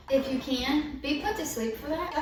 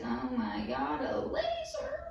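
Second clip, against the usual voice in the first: laser jumps way up in a stretched squeak; hammed-up alarm, pitch soaring on laser; mock-horrified gasp at the word laser; mock shock; 4 dB quieter than usual. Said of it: "I was like".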